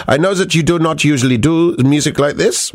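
put-on careful German-accented English. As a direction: read it out as a German listener. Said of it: "allowed to do the German accent".

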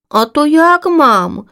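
high, eager little chick voice; little swallow chick. Acted. Chick Dobrovka asks mother swallow, high and curious. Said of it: "озвалася Добровка".

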